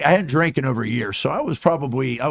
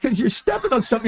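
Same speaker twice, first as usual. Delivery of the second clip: ordinary delivery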